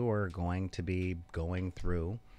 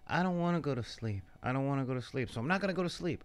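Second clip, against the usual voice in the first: higher-pitched mock bedtime whine; imitating whiny kid; 4 semitones higher, much faster than usual. Host imitates cranky kids who won't sleep, mock whining. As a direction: lightly play a child refusing bed. Voicing tired kids refusing bed.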